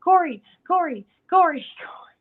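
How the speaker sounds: high, loud repeated calling of a name. Retold or imitated. Mother-in-law calling her ignoring son, loud high calls. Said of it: "she was calling him".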